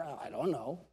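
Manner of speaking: put-on mumbled small child's reply; mock clueless child. Preacher mimicking a clueless child, mumbled and soft. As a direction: play the helpless kid who knows nothing.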